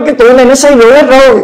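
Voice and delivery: a hint of scoffers in Acts mocking the believers; mocking onlookers. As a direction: sneer at the drunk-looking crowd. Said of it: "họ nói".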